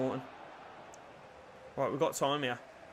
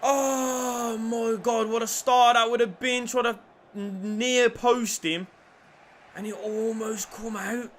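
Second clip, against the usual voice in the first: tag; 5 semitones higher, 3 dB louder than usual. Real, not acted. Recovering from near miss.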